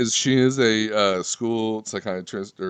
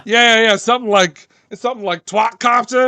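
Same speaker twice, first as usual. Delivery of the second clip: mom voice; 11 semitones higher, 6 dB louder than usual. Retold or imitated. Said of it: "She's like".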